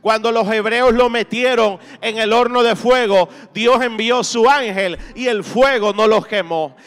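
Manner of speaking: impassioned preacher rallying the congregation; fervent preaching. Real, not acted. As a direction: preach with driving, rhythmic conviction, building through repeated phrases. Predica con fuerza ante la congregación. (prédica ferviente y enérgica)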